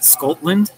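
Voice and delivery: "Scotland" with a long "oh" in the first syllable; mock Scottish pronunciation. Shown as a demonstration. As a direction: say "Scotland" as SKOHT-lund, rising as if checking. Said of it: "That's how you say it".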